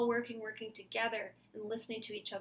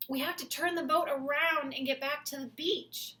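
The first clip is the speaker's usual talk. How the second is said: put-on kid voice; 5 semitones higher, 7 dB louder than usual. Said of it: "And the kid said".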